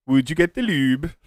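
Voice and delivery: put-on a light, joking Norwegian accent with a rising finish; mock Norwegian accent. Streamer asks someone to fetch the lube, in a mock Norwegian accent. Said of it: "that was more of a Norwegian accent".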